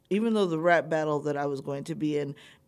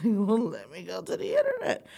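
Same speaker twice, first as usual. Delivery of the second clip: laughing; 3 semitones higher than usual. Real, not acted. Laughing at herself.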